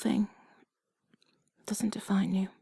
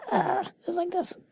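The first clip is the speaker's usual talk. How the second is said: playful squeeze; 10 semitones higher, 5 dB louder than usual. Acted.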